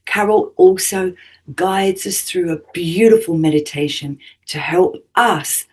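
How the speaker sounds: measured radio host introduction read; scripted show intro. Acted. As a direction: read the guest's bio to listeners, phrase by phrase.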